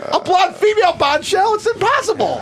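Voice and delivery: high, insistent incredulity; mock disbelief. Host disputing that Michael is gay, mock disbelief. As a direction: argue it cannot be, pitch climbing. Acts baffled by coming-out news.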